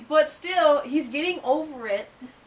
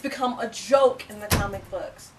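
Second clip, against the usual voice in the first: fake British accent. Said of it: "we're doing our accents".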